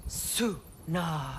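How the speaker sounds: a slow ritual word of power; spoken incantation. Acted. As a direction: intone the word slowly like a spell. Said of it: "I'll speak it".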